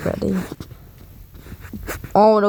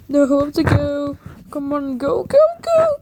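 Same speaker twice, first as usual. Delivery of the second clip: scared horror game streamer; 5 semitones higher than usual. Real, not acted. Monster chase in game.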